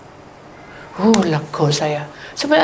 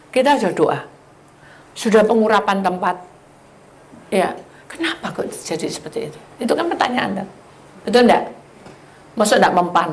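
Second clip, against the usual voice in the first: ordinary delivery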